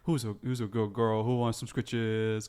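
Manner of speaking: slow, drawn-out cooing to a dog; doggy baby talk. Acted. Guard fussing over a friendly dog, cooing.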